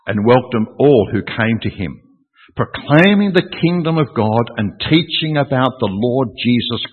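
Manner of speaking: measured, emphatic Bible reading; scripture reading. Acted. Preacher reading the last two verses to church, emphatically. Reads the closing verses aloud.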